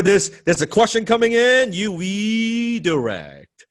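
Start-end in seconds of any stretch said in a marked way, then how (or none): 1.7-3.7 slow redirect demo. Shown as a demonstration. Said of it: "Tai Chi, redirect one more time".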